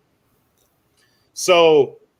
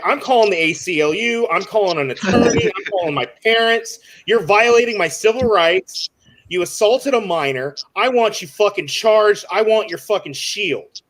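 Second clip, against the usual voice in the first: mildly heated list of threats; retold livid rant; 3 semitones higher than usual. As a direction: re-enact an outraged teen demanding justice. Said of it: "I, I'm livid".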